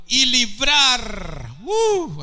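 sudden very high, loud whoop; ecstatic cry. Real, not acted. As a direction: burst out with holy joy. Predicador exclama en el clímax. (grito de júbilo muy agudo y fuerte)

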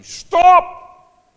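sudden high piercing shout; a shrill cry of alarm. Acted. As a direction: yell it as an urgent warning. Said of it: "this voice crying out and say".

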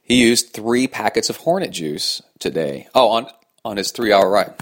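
hiccuping while talking; with hiccups. Real, not acted. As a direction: hiccups cutting in. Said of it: "Man, I got the hiccups".

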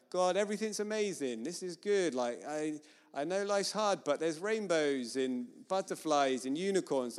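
mock upbeat positivity; fake happy-clappy. Worshipper praying only positive things to God, fake cheerful. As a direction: lightly parody a relentlessly cheerful prayer. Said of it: "some fake, happy, clappy".

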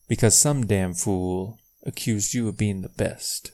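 lightly acted general's line, falling at the end; quoted movie line. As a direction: quote the film with a hint of the general. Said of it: "Let me rephrase".

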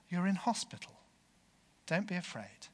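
soothing, gentle reply. Acted. Gentle carer answering the injured man, reassuringly. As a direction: reassure a frightened patient gently. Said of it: "a gentle voice replied".

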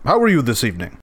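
low, mumbled celebrity impression; lightly voiced Chris Rock. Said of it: "introduce you to Chris Rock".

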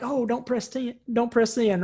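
laughing mock panic. Someone regretting a text, laughing mock panic. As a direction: laugh while pleading with yourself not to send. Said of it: "you just wanna claw it back".

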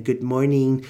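put-on Boy Town "morning", said like "moy-neen"; Boy Town accent. Shown as a demonstration. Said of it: "as a Boy Town co-host".

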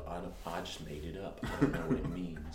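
low, soft mumbled impression; a singer. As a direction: lightly imitate a singer's offhand answer. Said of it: "when a singer said".

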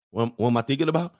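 mumbly, put-upon reply; drowsy boyfriend. Acted. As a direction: answer in your own register, half asleep and puzzled. Acts drowsy man answering her.

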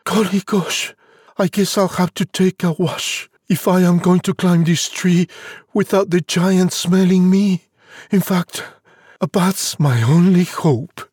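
high-pitched little character voice; Jack murmuring. A narrator's reading. Jack planning to climb past the giant, high-pitched murmur. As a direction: think aloud in a high voice. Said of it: "He murmured softly".

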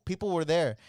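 ordinary talk, nothing marked

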